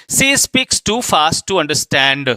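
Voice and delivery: very slow, word by word; deliberate classroom reading pace; slow dictation. Shown as a demonstration. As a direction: spell it out slowly for students. Teacher reads example sentence.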